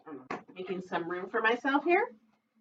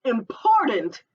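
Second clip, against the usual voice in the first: sly fox; 5 dB louder, slower than usual. Acted. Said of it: "said Foxy Loxy".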